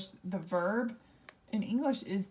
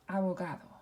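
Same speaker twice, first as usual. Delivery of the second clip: abogado with the weight on "ga"; stress on next-to-last syllable; faster than usual. Shown as a demonstration. Teacher models the word for class, abogado stressed on "ga". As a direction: say abogado as Spanish a-bo-GA-do. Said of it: "we would pronounce this".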